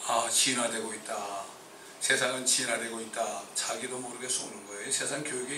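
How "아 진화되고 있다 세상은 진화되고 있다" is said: mock naive kids. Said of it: "아이들이".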